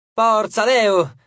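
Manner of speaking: high, loud nymph's cheer; squeaky-voiced fan shout; shrill little shout. A narrator's reading. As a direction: cheer in a small high-pitched voice. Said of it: "gridò una delle ninfe con la sua vocina acuta".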